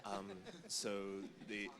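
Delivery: soft, close to the mic; hushed, right in your ear; whispering into the mic. Real, not acted. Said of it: "So I'm gonna whisper into the microphone".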